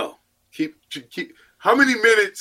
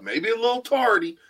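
ordinary delivery

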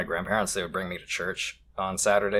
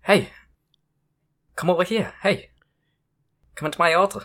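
creepy priest beckoning; 9 semitones higher, 4 dB louder than usual. Pretend. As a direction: lure him in like a creepy priest. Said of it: "No, it was more like".

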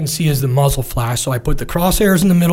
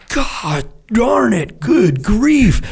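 whispered, much higher, drawn-out disbelief; shocked whisper; 7 semitones higher, much slower than usual. Retold or imitated. Comms guy watching the hit, whispering in shock. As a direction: breathe it out in horror.

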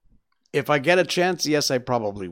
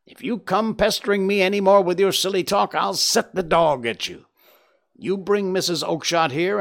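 mock angry tirade, pitched up; acted exasperated shouting, moderately raised; shouted; 5 semitones higher than usual. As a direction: scold a pest as the fed-up salesman. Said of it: "he shouted".

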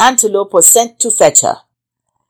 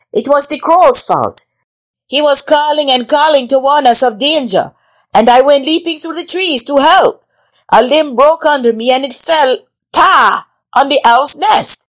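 high, loud jittery monkey voice; nervous monkey; 8 semitones higher, 4 dB louder than usual. Acted. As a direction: excuse yourself as a scared monkey. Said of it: "He came before him nervously".

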